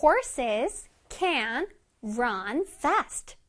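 one word at a time with pauses; slow model reading. Shown as a demonstration. Teacher reading an example for children, word by word. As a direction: space out every word clearly.

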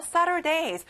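"Saturdays" with an audible S at the end; final S sounded. Shown as a demonstration. Teacher pointing out the ending, "Saturdays" with the final S sounded. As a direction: finish "Saturdays" on a clear S. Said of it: "Saturday 뒤에 S가 나오네요".

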